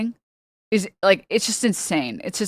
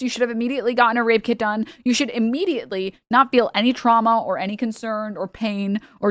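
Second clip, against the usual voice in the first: mocking the critics; 3 semitones higher than usual. Mocking people who lecture rape victims, in a prissy sneer. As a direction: parrot their preachy advice with scorn.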